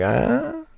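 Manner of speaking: high drawn-out "ah?"; high, expectant mock-laughing sound; imitated laugh. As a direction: mimic a coworker fishing for a laugh. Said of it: "starts laughing and, like, looks at me".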